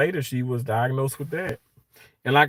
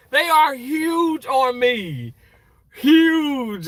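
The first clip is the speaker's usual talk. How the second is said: laughing; 11 semitones higher, much slower than usual. Real, not acted. Still laughing after scrubs joke.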